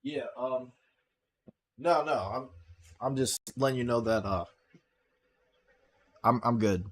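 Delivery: muffled and distant, bad phone line. Real, not acted. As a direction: voice coming from far off. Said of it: "a little muffled or far away".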